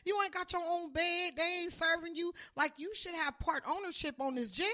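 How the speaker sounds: high, loud comic disbelief; incredulous mock rant. Acts disbelief at inmate's boast.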